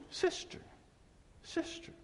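whispering pastor imitation; whispered call. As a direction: lean in and whisper to her. Pastor voiced approaching wife.

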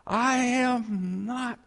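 high, slow, loud cry of protest; a kid screaming he is not possessed; loud yell. Retold or imitated. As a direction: shout the denial high and drawn out. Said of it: "This is loud".

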